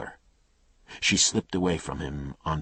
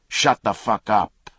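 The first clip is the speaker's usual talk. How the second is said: loud, higher savage shout; furious yell; 6 semitones higher, 9 dB louder than usual. Acted. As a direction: roar at her to be silent. Attacker silencing screaming woman.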